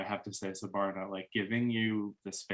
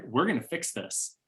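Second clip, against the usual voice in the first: higher-pitched, quicker take aimed at him; telling the other guy; 4 semitones higher than usual. Retold or imitated. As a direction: say it to him as a joint fix. Imagined line to the other man.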